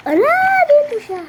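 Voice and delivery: gulat na hingal. Real, not acted.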